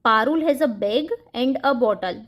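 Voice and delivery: very slow, word by word; slow dictation for children; slow example read. Shown as a demonstration. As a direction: spell out the joined sentence slowly. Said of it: "यहाँ पर हमने and joining word का use किया है".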